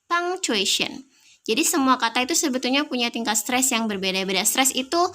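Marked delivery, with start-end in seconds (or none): 0.1-1.1 Punctuation. drawn out slowly, with punk high and stressed. Shown as a demonstration. Teacher slowly repeating Punctuation. for the class with the stress on punk. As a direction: stretch out Punctuation. and lean on punk. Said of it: "Saya tekan di punk".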